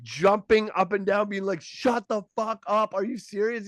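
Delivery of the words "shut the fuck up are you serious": high, stunned shout-laugh of disbelief; can't believe it's him; excited disbelief. Retold or imitated. Comic to the spa guy in front row, excitedly disbelieving. Losing it, jumping up and down.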